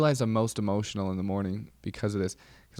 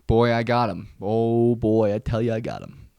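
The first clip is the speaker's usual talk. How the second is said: louder, proud gloating crow; triumphant boast; 6 dB louder than usual. Real, not acted. Bragging to viewers about beating him, triumphant and loud. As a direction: crow about the win like a champ.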